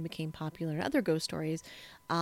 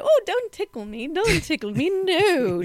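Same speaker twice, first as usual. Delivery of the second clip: being tickled; 11 semitones higher, 9 dB louder than usual. Pretend. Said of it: "Oh, yes, you do".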